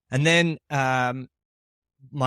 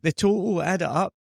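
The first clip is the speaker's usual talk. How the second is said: put-on Scottish accent; 6 semitones higher than usual. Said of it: "looked at me with a blank face".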